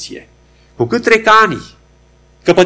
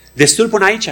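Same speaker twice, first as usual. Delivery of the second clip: higher, stressed "Destul până aici" with weight on "până"; emphatic repeat; 6 semitones higher than usual. Real, not acted. Preacher driving home "Destul până aici", raised and emphatic. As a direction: proclaim "Destul până aici" up and firm to the church.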